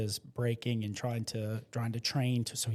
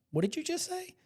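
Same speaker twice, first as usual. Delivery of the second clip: much higher, soft incredulous question; stunned disbelief; 4 dB quieter than usual. Retold or imitated. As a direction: ask as if you can't believe it. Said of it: "And I'm like".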